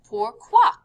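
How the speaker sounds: "Pourquoi" with a clear kwa ending; high, loud model of "Pourquoi"; KW sound. Shown as a demonstration. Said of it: "does have the quoi sound".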